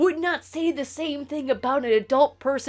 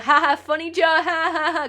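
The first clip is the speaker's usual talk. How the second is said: forced, louder mock laugh; awkward fake laugh; 5 semitones higher, 4 dB louder than usual. Streamer imitating a teen's awkward reply to a creep, fake laughing. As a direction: fake a polite, uncomfortable laugh. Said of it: "awkward be like".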